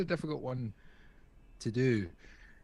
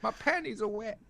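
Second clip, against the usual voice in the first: high breathy swoon, way up in pitch; mock swooning fan. Mocking a listener swooning over a smooth voice, high squeal. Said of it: "just like".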